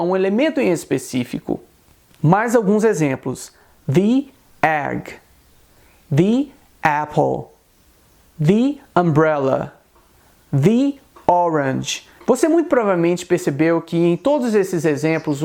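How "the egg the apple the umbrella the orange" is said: "the" said as "thee" before each word; slow model reading, "the" rhyming with "see"; "the" before vowels. Shown as a demonstration. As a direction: say each "the" as "thee", then pause. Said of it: "optar por uma das pronúncias do artigo definido".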